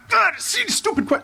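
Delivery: a panicked superfan squeaking out a question; Chris Farley freakout. Retold or imitated. Mock SNL superfan meeting his idol, flustered and squeaky. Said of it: "he's just freaking out like".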